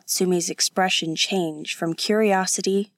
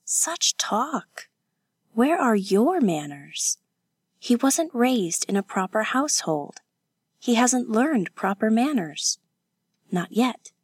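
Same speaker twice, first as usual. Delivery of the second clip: higher voice, mildly scolding; indignant young defender; 4 semitones higher than usual. Acted. Kazuko scolding her companion over rude talk, indignant. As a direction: chide her in a lifted voice.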